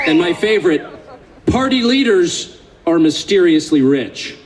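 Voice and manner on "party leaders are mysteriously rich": slow, deliberate reading, every word spaced out; read slowly. Shown as a demonstration. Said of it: "I want to read this slowly".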